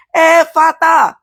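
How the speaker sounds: loud, drawn-out command, pitched high; ringing word of command, stretched out; commanding cry. Retold or imitated. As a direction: proclaim it slowly and forcefully. Quoting Jesus' command.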